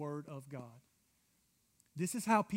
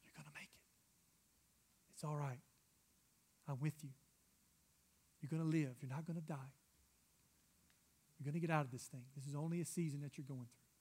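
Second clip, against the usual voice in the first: whispered start, then hushed reassurance; very soft, encouraging near-whisper, unhurried; gentle whisper; 2 semitones lower, 8 dB quieter, faster than usual. Retold or imitated. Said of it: "He's whispering to you".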